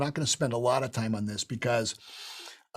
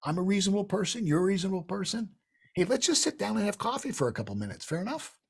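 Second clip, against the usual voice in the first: reasonable person; 4 semitones higher, faster than usual. Shown as a demonstration. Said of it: "work on the reasonable man".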